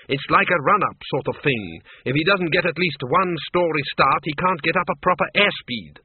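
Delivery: lively, high-voiced countess explaining; vampire's wife. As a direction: explain your husband's trouble in a high voice.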